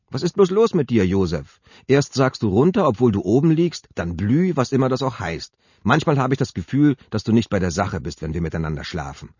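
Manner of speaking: höher und lauter, empört vorwerfend; vorwurfsvoll. Acted. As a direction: wirf ihm seine Abwesenheit empört vor. Sabine wirft Jupp Unaufmerksamkeit vor. (Sabine schimpft im Bett empört mit Jupp)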